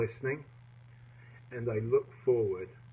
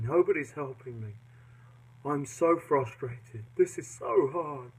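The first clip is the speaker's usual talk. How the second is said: mock exasperated grumble, dragging the words; frustrated whine; 3 semitones higher than usual. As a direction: moan it like you're banging your head on a wall. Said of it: "we'll bang our head against the wall".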